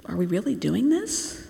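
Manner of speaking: softly voiced, uneasy question; a hesitant disciple's doubt, rising at the end. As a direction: ask it softly, unsure, lifting the last word. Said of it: "feel and see their discomfort".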